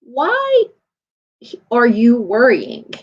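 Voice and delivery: slow, measured question with a long pause; drawn-out, patient questioning; calm. Retold or imitated. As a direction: imitate an unruffled father, leaving space after the first word. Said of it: "in his very calm way".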